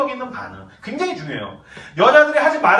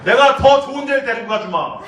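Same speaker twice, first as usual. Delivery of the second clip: chivalrous man; 3 semitones higher, 5 dB louder than usual. Retold or imitated. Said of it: "이 기사도가 나온다고".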